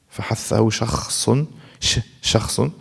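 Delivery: rattled off fast; fast recitation. Shown as a demonstration. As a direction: run the phrase quickly. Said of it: "recites the hams letters".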